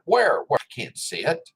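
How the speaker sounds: high, sharp mock question; mock searching. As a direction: pretend to hunt for it, incredulous.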